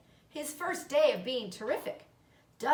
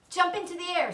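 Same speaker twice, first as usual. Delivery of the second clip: calling out; 8 semitones higher, 5 dB louder, faster than usual. Acted. Charlotte directing Wilbur.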